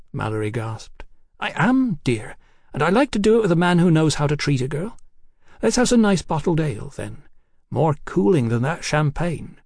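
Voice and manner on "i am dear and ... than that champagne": put-on high, giddy voice of a tipsy young woman. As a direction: play her high and cheeky. Hetty voiced by narrator.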